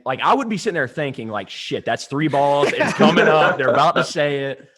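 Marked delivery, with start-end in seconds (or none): 1.5-4.7 mock panic. Acting out panicked thoughts on the mound.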